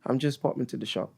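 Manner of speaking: lightly put-on British accent; careful go at typical British speech; British accent attempt. Shown as a demonstration. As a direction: echo it in your best British accent. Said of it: "say them in your best British accent".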